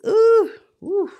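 high breathy whisper; whispered ooh. Real, not acted. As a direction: hiss ooh at the drama. Reacting to betrayal.

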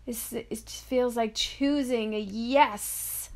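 drawn-out, swooping "yes"; slow build into a joyful yes; delighted yes. Real, not acted. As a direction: savor the last word, about to laugh. Delighted yes, breaking into laughter.

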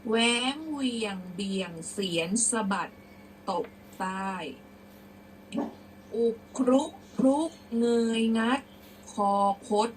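deliberate verse with emphatic middle; prose-style recitation. Shown as a demonstration. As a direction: project the old words phrase by phrase. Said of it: "เดี๋ยวครูจะอ่านเป็นร้อยแก้ว".

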